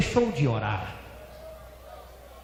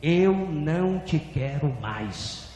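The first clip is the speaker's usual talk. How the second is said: drawn-out, slow pronouncement; measured, falling, stretched words; divine voice repeating; 3 semitones lower, slower than usual. Retold or imitated. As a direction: speak it slowly as God's verdict. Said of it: "E a voz repetiu".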